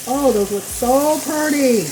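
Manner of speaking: rough, worn-out voice; hoarse voice. Real, not acted. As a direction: talk through a scratchy throat. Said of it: "I'm losing my voice or what".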